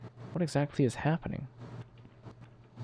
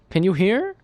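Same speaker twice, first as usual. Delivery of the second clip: loud and much higher, calling into the mic; too loud; 9 semitones higher, 7 dB louder than usual. Acted. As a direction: shout it, not realizing the volume. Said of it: "man, he talks really loud".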